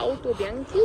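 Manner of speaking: Auto Bianchi said the Italian way, rolling the vowels; Italian accent. Shown as a demonstration. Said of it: "C'est un super accent".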